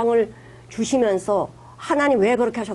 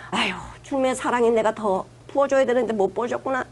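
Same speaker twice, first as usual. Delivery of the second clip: sighing, subdued mock prayer of regret; rueful self-reproach. Preacher modelling a prayer that blames oneself, rueful. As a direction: lament it gently, as if owning the failure.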